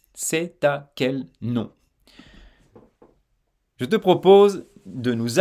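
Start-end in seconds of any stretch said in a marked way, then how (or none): 0.1-1.7 "C'est à quel nom" slowly, t joined to "à"; slow liaison. Shown as a demonstration. Teacher to learner, a final liaison demo. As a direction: draw out "C'est à" to show the link. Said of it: "nous sommes dans une liaison".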